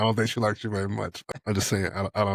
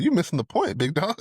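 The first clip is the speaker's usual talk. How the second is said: mocking jab; 8 semitones higher than usual. Imitating Dash mocking critic.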